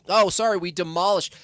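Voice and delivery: chirpy fake apology, ad-like; bright sales pitch, tongue in cheek; mock corporate cheer. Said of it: "It's like".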